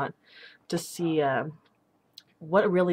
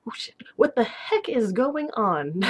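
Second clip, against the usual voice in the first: higher, drawn-out baffled reaction; mock confused; 4 semitones higher, slower than usual. Imitating people who get her odd replies, confused. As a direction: imitate someone slowly puzzling it out, baffled.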